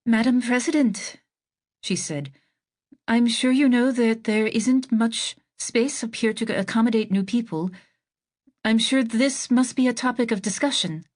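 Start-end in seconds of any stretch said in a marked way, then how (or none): 0.0-1.2 sing-songy. Acted. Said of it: "She was talking in her sing-songy voice". 3.1-11.0 lilting, higher sing-song voice; spacey sing-song, drifting up and down; dreamy singsong lilt to the president; sing-songy. Acted. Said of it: "She was talking in her sing-songy voice".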